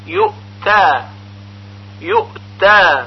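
یؤتا with a clean glottal stop after یؤ; correct unbounced hamza. Shown as a demonstration. Teacher giving the correct form, sharp stop in یؤتا. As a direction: hold the silent stop, then long تا. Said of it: "صحیح اون اینطور هست".

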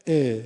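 short loud «ا.» as a vowel sound alone; demonstrated vowel. Shown as a demonstration. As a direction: voice the bare vowel «ا.» as a sample. (تلفظ نمونهٔ «ا.» به تنهایی)

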